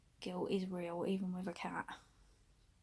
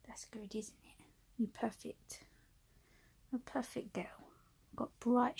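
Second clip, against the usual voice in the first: cooing praise. Real, not acted. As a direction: whisper sweet praise at her. Praising the cat softly.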